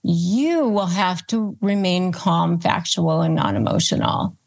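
steady and matter-of-fact; calm, firm conditions to a child; calm firm statement. Shown as a demonstration. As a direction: lay down the terms calmly. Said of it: "that's your attitude".

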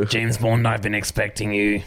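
mock Russian, low and deliberate; Russian accent. Shown as a demonstration. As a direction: play a Russian spy-film villain, slowly. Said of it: "Do a Russian accent".

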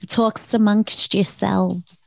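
slow, lightly put-on talk-show host catchphrase; a hint of a comic sketch hostess; Linda Richman. Podcaster stalling with an SNL catchphrase, light impression. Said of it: "That's Mike Myers, Linda Richmond".

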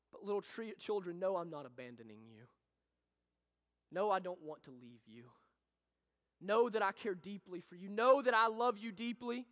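put-on a soldier on one knee softly reassuring his children; tender reassurance. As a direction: comfort them as you leave. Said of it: "and he says".

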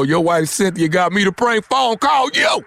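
slow reveal climbing to a shouted last word; prank punchline. Acted. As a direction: draw it out, building to a holler.

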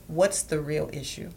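calm, quiet, steady question. Retold or imitated. Husband asking his cranky wife, calm and quiet. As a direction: ask it evenly to cool things down. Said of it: "he'll say it in a calm voice".

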